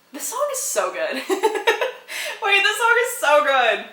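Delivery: laughing through the words; giggling, can barely get it out; breathless delighted laughter. Real, not acted. Laughing over lyrics.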